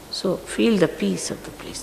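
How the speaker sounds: hushed urging. Real, not acted. Teacher urging followers to feel the peace, hushed. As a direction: drop right down to a hush.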